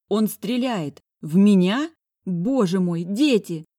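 loud, high panicked cry. Acted. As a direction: cry out in terror. Narrator panics under gunfire.

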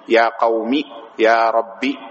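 "قومي" and "ربي" ending in short i; kasra only. Shown as a demonstration. Teacher dropping the ya, "قومي" and "ربي" ending on kasra. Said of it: "بالكسر فقط".

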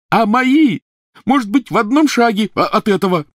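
very high, loud shriek. A narrator's reading. Ron shrieking back at Harry, furious shriek. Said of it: "завизжал Рон".

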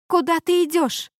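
high, loud desperate cry; shouting. A narrator's reading. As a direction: call after him in a panic. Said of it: "закричала Рейган".

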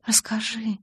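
whisper, coaxing him to tell. A narrator's reading. Hushed exchange in the dark. (шёпотом, с просьбой)

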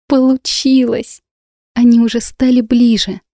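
delighted. A narrator's reading. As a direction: savour the small victory. Heroine's triumph at a breakthrough. (восторженно, с ликованием)

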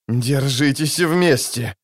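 groaned. Acted. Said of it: "простонал Скеллен".

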